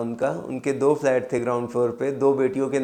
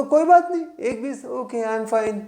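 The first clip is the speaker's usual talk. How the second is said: high, eager voice of a relieved buyer; excited doctor; 8 semitones higher than usual. Retold or imitated. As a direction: jump up in pitch, delighted to say yes. Doctor agrees to the price. (Doctor की ऊँची, उत्साहित आवाज़)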